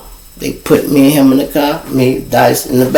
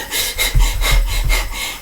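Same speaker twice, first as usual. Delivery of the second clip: winded huffing, acted out; quick breathy puffs, imitating exhaustion; imitated panting; 8 dB quieter than usual. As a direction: pant like a man out of breath. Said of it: "He's so out of breath".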